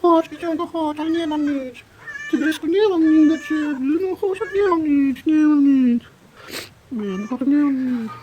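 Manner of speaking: high cooing pet voice; calling a pet. Real, not acted. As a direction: coax the animal, high and sweet. Calling an animal to come.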